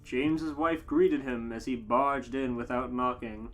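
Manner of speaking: ordinary talk, nothing marked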